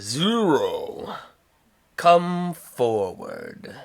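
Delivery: slow, lightly voiced crime lord summons; Jabba. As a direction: draw out each word as a command. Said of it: "Jabba, uh, says".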